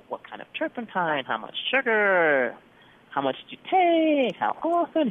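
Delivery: high, slow probing questions; eager questioning. Retold or imitated. Doctor quizzing patient on dosage, high eager questions. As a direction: push up high, curious and insistent.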